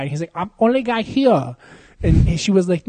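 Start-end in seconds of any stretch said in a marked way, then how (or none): 0.3-1.6 mock Asian accent. Coworker voiced, mock Asian accent.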